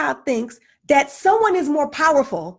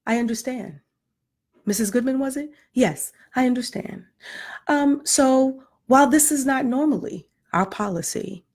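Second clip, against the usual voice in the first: polite clerk; 4 semitones lower than usual. Retold or imitated. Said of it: "Miss Rodriguez's response was".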